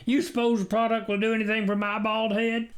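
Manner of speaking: high, quick teasing farmer; joking farmer. Acted. Farmer joking with the stranger, light teasing. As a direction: tease about his bald head.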